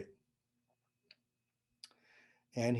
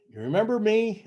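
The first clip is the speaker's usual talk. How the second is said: higher, louder eager question; excited greeting; 9 semitones higher, 7 dB louder than usual. Retold or imitated. Former patient greeting his old healer, excited and loud. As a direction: call it out gleefully like a surprise reunion.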